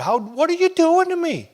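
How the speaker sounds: high, loud angry cry; yelling at God in the backyard, fed up. Retold or imitated. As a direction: shout it at the heavens. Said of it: "I'd be yelling at God in the backyard".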